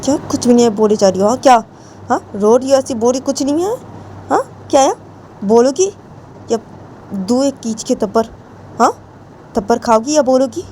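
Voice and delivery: high, fast scolding threat; threatening Jiya. Acted. Jiya threatens Ritu with a slap, high scolding.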